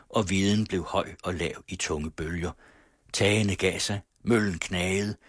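measured, evocative reading of the landscape; story narration. A narrator's reading. Radio host reads the novel's wind scene aloud in narration.

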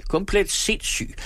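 very high, drawn-out exclamation; high, scandalised outburst; outraged scream. A narrator's reading. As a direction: declare it slowly in shrieking indignation. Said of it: "skreg han".

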